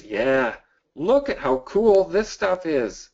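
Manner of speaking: high, eager show-and-tell; bursting with enthusiasm over the products; excited. Real, not acted. Showing off designs, enthused.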